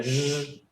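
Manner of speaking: "Z" as a held buzzing zh; vibrating sound. Shown as a demonstration. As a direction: hold "Z" as a voiced sh sound. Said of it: "que vibraban". ("Z" vibrada, como una sh sonora)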